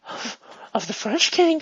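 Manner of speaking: mildly choked up, halting; understated emotional wobble, in character; getting emotional. Acted. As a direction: act a touch overcome, breaking off. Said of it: "Sorry, I'm getting emotional".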